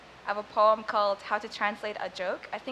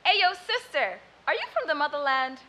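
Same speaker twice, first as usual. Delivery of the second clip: street man voice; 3 semitones higher, 3 dB louder than usual. Retold or imitated. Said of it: "a man stops me and says".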